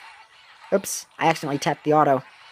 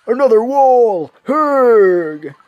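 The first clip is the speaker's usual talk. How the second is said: robot voice; 3 semitones higher, 6 dB louder, slower than usual. Acted. Robot cookie transforming.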